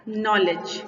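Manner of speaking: नॉलेज with a firm NO and a light "lej"; first-syllable stress. Shown as a demonstration. Teacher giving an example noun, नॉलेज stressed on NO. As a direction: punch the start of नॉलेज. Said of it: "first syllable पर।".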